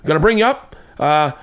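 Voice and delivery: high-pitched mock British host, rising phrase ends; horrible British accent. British host laying down club rules to a visitor, horrible mock British accent. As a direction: rattle off the rules in a badly faked British accent. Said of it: "once again a horrible accent".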